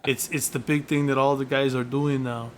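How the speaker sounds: lightly put-on Austrian accent; faux-innocent Austrian bodybuilder; Arnold impression. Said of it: "Arnold got him kicked off the stage".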